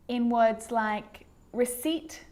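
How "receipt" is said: "receipt" with no P sound; silent P. Shown as a demonstration. Teacher showing the letter P can be silent, careful model. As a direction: model "receipt" slowly as re-SEET. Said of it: "The letter P can also be silent".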